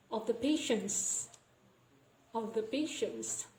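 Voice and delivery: "patients" with N running into S; dropped T. Shown as a demonstration. Teacher repeating the example, "patients" said without its T. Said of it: "We delay the T".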